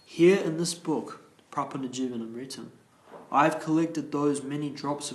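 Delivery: slow, weighty opening, starting loud; measured, emphatic re-read for clarity. Shown as a demonstration. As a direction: read it out slowly and deliberately. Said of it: "I'll read that again a bit slow".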